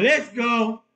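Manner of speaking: imitating Pa. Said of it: "Pa's just going".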